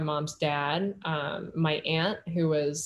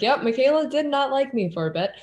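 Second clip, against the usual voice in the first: voicing God; 8 semitones higher, 7 dB louder than usual. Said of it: "He's like".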